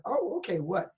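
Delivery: mock double take, retold lightly; startled surprise. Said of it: "And I went".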